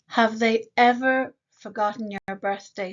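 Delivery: ever held and marked; stress on ever. Shown as a demonstration. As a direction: lean on ever. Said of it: "So it's not never, but ever".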